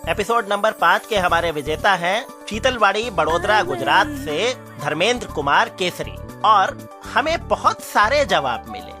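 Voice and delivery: deliberate winner announcement over music; announcer read. Acted. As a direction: announce contest results, spacing out the key words.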